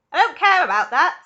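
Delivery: loud, high bratty shout; high-pitched tantrum shout. Acted. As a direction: shout it like a spoilt girl. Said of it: "shouted Veruca".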